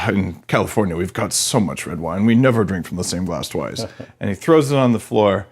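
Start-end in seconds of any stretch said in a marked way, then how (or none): 0.1-3.9 Californian. Retold or imitated. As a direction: lightly play a mellow wine-sipping Californian. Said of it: "the Californian's like".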